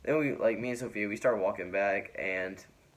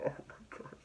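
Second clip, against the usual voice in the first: imitated giggling through an apology; half-voiceless, giggly mock apology; 4 semitones higher, 5 dB quieter than usual. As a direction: try to say sorry while breaking into giggles. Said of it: "like, giggling".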